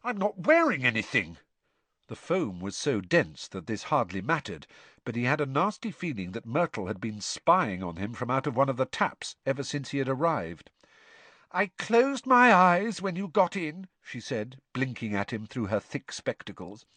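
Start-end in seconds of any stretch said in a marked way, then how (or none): 0.0-1.4 put-on flustered, stammering boy; flustered schoolboy; embarrassed Harry. A narrator's reading. Harry embarrassed, naked in bath. 11.5-13.9 put-on high, airy ghost girl; high girlish ghost voice; Myrtle's ghostly voice. A narrator's reading. Myrtle replies.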